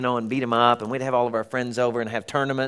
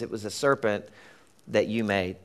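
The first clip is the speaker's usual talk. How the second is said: muttered excuse; 5 semitones lower, 5 dB quieter than usual. Retold or imitated. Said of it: "the woman says".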